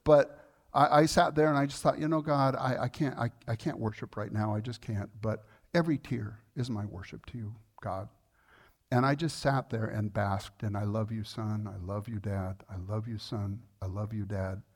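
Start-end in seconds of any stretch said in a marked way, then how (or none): 2.0-8.1 quiet, fading, overcome; tearful whispered prayer. Retold or imitated. Tearful prayer, cannot worship. 10.8-14.6 soft, low, tender back-and-forth; tender exchange. Retold or imitated. Tender exchange with Father God.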